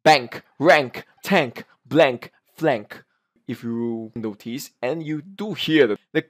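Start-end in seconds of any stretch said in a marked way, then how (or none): 0.0-3.0 word drill with the final K released; crisp K sound. Shown as a demonstration. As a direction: end BANK, RANK, TANK on an audible K. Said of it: "K sound".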